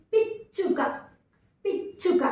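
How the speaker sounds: పిచ్చుక with a firmly doubled, pressed చ; pressed double చ. Shown as a demonstration. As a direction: hold the చ్చ in పిచ్చుక, with a catch before its release. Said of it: "ఒత్తి పలకాలి".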